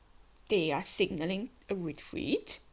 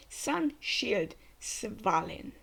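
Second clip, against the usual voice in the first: called attack name; much slower than usual. Acted. Reacting to the anime, calling the attack name. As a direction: announce the shield like an anime hero.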